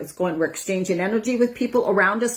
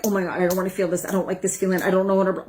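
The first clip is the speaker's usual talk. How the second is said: fast worried fretting; much faster than usual. Retold or imitated. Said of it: "You get worried about it".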